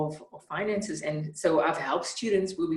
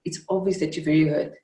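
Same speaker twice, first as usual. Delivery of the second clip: calm repeat; 3 dB louder than usual. Retold or imitated. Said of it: "he repeated again".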